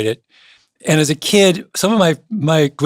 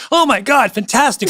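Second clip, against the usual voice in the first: excited Nigerians; 9 semitones higher than usual. Retold or imitated. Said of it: "every Nigerian on Twitter was like".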